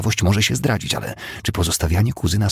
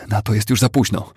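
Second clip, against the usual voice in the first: calling out; 4 semitones higher, 4 dB louder than usual. A narrator's reading. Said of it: "zawołała Madeleine".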